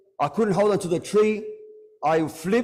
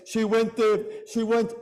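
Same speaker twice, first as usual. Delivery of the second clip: higher, breaking lament; high grieving voice; 5 semitones higher than usual. Real, not acted. Preacher voicing Sakina, high grieving cry.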